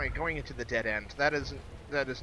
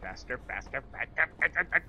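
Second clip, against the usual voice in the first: being chased. Real, not acted. Urging himself while chased.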